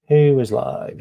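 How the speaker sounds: calling out. Real, not acted. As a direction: call the question out to chat. Searching for live streamers.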